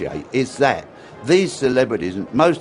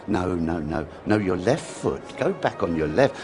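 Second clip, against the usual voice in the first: soft, gentle correction of a pupil; mild patient dance teacher; patient teaching voice; 5 semitones lower, 5 dB quieter than usual. Retold or imitated. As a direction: coax the student kindly. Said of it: "I used to be so patient with people".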